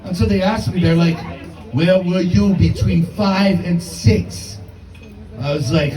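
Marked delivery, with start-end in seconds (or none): 1.7-4.6 slow, heavy interrogating cop; mock police interrogation; cop question. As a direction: drag it out like a suspicious detective. Cops questioning, slow far voice.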